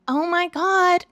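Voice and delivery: tearful, high-pitched overwhelm; real tears rising in the voice; choked up and high; crying. Real, not acted. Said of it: "I'm crying".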